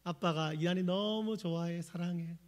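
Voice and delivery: put-on slow tender "I love you" to a five-year-old; tender dad. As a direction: say it slowly, like a father cuddling his boy. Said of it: "이랬어요".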